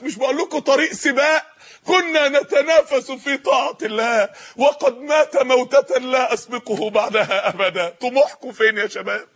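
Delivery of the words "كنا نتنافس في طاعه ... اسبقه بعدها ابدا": slow solemn quote. Acted. Quoting the captive, slowly.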